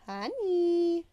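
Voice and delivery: loud, high sharp bark. Acted. Teacher barks at Percy to come, a loud high bark. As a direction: bark it as a command. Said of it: "Missus Dodds barked at me".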